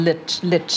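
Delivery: "lich" with a very short i; short clipped syllable. Shown as a demonstration. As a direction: keep each "lich" brief, ending in ch. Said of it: "สั้นๆเลยค่ะ".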